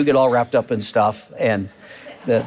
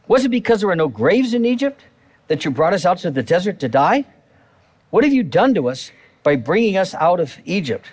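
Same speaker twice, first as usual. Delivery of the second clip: sarcastic; 5 semitones higher than usual. Retold or imitated. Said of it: "it's just dripping with sarcasm".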